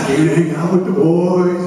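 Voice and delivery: sung out eagerly; excited singsong. Retold or imitated. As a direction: lilt it like a happy kid. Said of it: "all excited".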